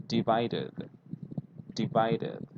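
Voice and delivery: divided ending in a clear id syllable; model of divided. Shown as a demonstration. Teacher models divided for students. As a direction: say divided with the id on the end. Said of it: "So here you say".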